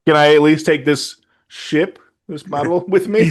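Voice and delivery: hammed-up hopeful request; mock hopeful pleading. Acting out the character's fallback request.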